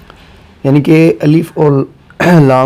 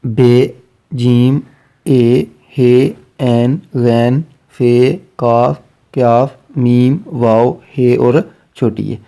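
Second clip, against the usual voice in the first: slow recitation; slower than usual. Shown as a demonstration. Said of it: "دوبارہ دیکھیں".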